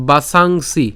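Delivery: বাসাংসি syllable by syllable; careful pronunciation. Shown as a demonstration. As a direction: model বাসাংসি with a held "saang". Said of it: "উচ্চারণটি কী করতেছি". (বাসাংসি স্পষ্ট করে টেনে)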